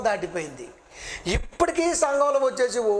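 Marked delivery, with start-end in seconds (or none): 2.8-3.0 long drawn-out "ఓ" imitating wailing; mock wail. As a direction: mimic church folk wailing in one long note. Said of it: "అని ఏడ్చేస్తుంటారు". (ఏడుపును అనుకరిస్తూ సాగదీసిన "ఓ")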